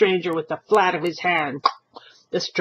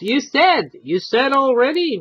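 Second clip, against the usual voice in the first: put-on old man cutting in, raised and quick; impatient interruption; 8 semitones higher, 5 dB louder than usual. Old husband interrupting the stranger, impatient. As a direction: butt in, exasperated. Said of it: "Mister Gumbiner interrupted".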